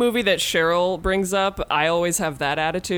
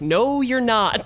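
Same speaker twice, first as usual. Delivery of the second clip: flat refusal; 5 semitones higher, much slower than usual. Retold or imitated. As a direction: shut the idea down slowly. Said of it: "And they're like".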